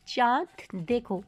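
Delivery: slow clear reading. Shown as a demonstration. Teacher reading an example to students, slow and clear. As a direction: spell it out with your voice. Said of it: "जो हम आपको पढ़ के सुनाएंगे".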